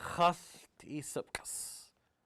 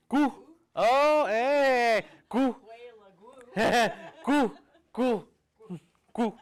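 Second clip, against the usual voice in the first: high, louder joyful calls breaking into laughter; delighted cry; 7 semitones higher, 7 dB louder, slower than usual. Retold or imitated. Carver delighting in his seal that barks, laughing calls. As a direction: cheer with a laugh as it comes to life.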